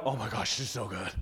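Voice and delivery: low, hushed food bliss; savoring. Acted. Diner relishing a good meal, hushed savoring. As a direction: murmur it softly and low, relishing every bite.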